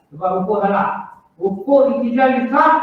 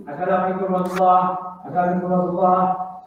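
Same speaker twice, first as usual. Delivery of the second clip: fast, mumbled salams; rushed wrong salam; 3 semitones lower, 4 dB quieter, much faster than usual. Shown as a demonstration. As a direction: hurry through them the wrong way.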